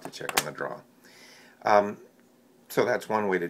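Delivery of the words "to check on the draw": pipe in mouth. Real, not acted. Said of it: "I just put it in my mouth".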